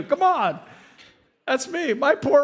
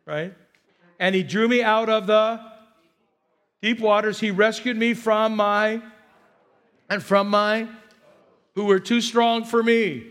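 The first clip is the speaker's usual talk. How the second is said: psalm reading; 2 semitones higher than usual. Acted. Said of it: "in verse sixteen".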